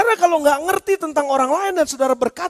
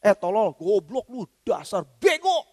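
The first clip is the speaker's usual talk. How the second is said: mock insult; 3 semitones lower, slower than usual. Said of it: "Makanya jangan dimasukin ke signal saudara juga".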